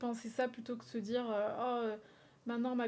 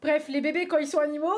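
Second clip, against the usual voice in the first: talking through hiccups, louder; 4 semitones higher, 8 dB louder than usual. Real, not acted. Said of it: "j'ai le hoquet".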